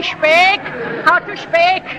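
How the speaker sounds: coach's rising Irish brogue. Shown as a demonstration. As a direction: demonstrate "speak" as "shpake". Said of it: "S H P A K E".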